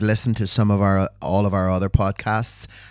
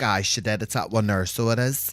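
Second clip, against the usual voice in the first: soft Belfast reply; 5 dB quieter than usual. Shown as a demonstration. Acted reply in dialogue.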